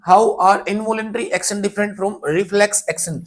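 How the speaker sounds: very slow, word by word; slow question reading. Shown as a demonstration. Teacher to class, reading the question slowly. Reads exam question aloud.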